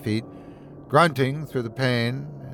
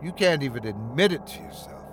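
spitting contempt; 4 dB quieter, faster than usual. Acted. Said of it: "he spits".

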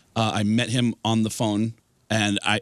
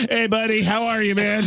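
friendly Tom Arnold on the phone; Tom Arnold impression; 9 semitones higher than usual. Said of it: "And Tom goes".

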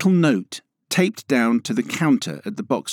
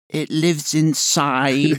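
slow, creepy stalker voice; heavy breathing phone whisper; 4 semitones higher, much slower than usual. Pretend. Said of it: "Why are you doing it in that voice?".

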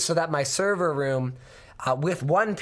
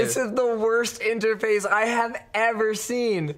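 strained, sick voice yelling in frustration; 4 semitones higher than usual. Real, not acted. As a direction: push the yell through a cold. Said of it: "I love your sick yelling voice".

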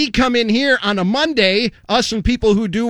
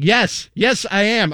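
out of breath. Real, not acted. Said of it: "breath work comes with the yoga".

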